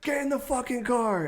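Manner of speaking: high mock mother voice; high imitated mom command; mom ordering. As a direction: order him into the car in a high put-on voice. Mom ordering son into car.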